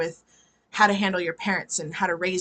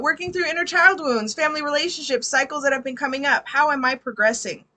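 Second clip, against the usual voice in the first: high, louder reading of a question; animated read-aloud; 6 semitones higher, 4 dB louder than usual. Real, not acted. Reader restarts client's question after greeting, animated read-aloud. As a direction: read it out brightly to the room.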